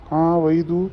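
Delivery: loud, scolding the eavesdropping daughter; angry scolding. Acted. Mother scolding the daughter who eavesdropped, loud and angry.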